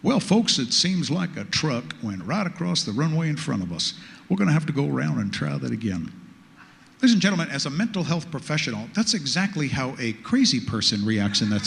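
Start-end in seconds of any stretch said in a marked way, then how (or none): 0.0-6.1 unbothered, lower airline captain voice; eerily calm pilot voice. Retold or imitated. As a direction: read it like a pilot on the cockpit headset. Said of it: "in that eerily calm pilot's voice".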